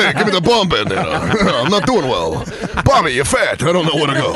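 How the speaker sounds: flustered comic giving up, laughter around it; Rodney Dangerfield bombing. Acted. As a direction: flail for help mid-act. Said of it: "That's a good Rodney".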